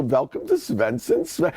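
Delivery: light Swedish greeting with a bounce; quick demo of the Swedish welcome; bouncy Swedish accent. Shown as a demonstration. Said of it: "You have the little bounce".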